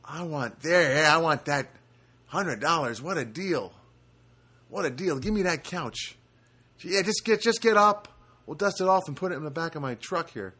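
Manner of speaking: lightly acted enthusiastic bargain hunter; mock excitement over a bargain; eager passing buyer. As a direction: play a hint of a driver pulling over to buy. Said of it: "drive down the street and go".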